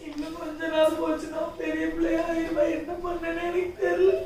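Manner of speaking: helpless crying lament; tearful despair. Acted. Mother fearing her child's growing up, tearful despair. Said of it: "சரி, சரி, அழாதீங்கக்கா".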